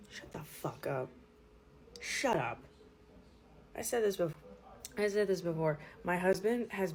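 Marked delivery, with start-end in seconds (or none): 0.1-2.6 annoyed. Real, not acted. Annoyed at boy.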